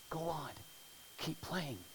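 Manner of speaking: hushed coaxing; soft encouragement. Retold or imitated. Pianist to the boy at the piano, a soft, hushed coaxing. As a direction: gently urge the child on. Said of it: "whispers to the kid".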